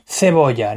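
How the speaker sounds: cebolla with lisped th for the c; Castilian pronunciation. Shown as a demonstration. Spaniard prompting an Argentine to say a word, Castilian pronunciation. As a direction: say "cebolla" the Spain way, th at the start. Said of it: "mira el argentino qué acento tiene".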